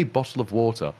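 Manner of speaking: "bottle of water" with clear T sounds; pronounced T's. Shown as a demonstration. Englishman showing he can say it, "bottle of water" with pronounced T's. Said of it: "pronounce T's".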